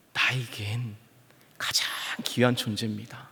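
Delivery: hushed unvoiced whisper. Preacher whispers how precious the son is. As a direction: breathe it out as a tender secret.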